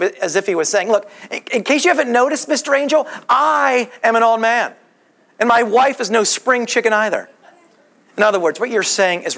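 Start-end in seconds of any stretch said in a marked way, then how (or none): 0.9-7.3 sarcastic. Acted. Zechariah answers Mister Angel about his age, sarcastic. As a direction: point out the obvious with mild sarcasm. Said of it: "gives Zechariah's sarcasm right back to him".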